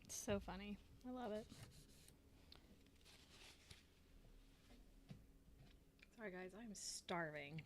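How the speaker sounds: talking while chewing food; words around a mouthful. Real, not acted. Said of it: "I know my chewing's annoying".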